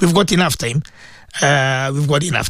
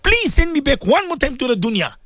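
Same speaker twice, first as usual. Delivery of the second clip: imagined pleading; 4 semitones higher than usual. Retold or imitated. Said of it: "you're gonna tell Allah".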